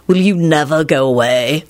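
mildly despairing plea. A narrator's reading. Lupin begging Quentin to leave, despairing. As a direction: sound worn down by a pest. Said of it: "Lupin said despairingly".

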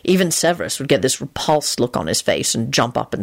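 low-pitched musing; reminiscent. A narrator's reading. Man recalling old friends at dinner, reminiscent. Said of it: "Lupin said reminiscently".

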